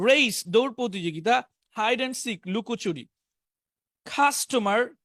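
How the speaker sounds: each word projected on its own, with pauses; vocabulary drill. Shown as a demonstration. Teacher reading sports and business words to class, deliberate drill. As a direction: read out a word list for pupils to repeat.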